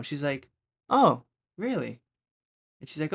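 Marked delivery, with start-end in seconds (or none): 0.9-2.0 high, loud, slow Oh, really; imitating a teacher who doesn't buy it; skeptical teacher. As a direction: drag it out in disbelief. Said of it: "in that tone".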